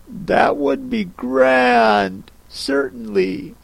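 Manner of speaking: musing it over; thoughtful Alice. Acted. Alice considers the Hatter's idea thoughtfully, slowly. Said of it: "said Alice thoughtfully".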